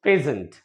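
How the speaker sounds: प्रेजेंट with the stress on प्रे; model pronunciation. Shown as a demonstration. Teacher repeats प्रेजेंट for learners, clear demo. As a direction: say प्रेजेंट clearly for students to copy. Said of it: "वो यही बोलना है".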